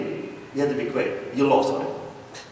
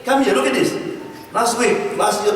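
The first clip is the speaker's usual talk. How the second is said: mock angry husband; 6 semitones higher than usual. Angry husband voiced in story.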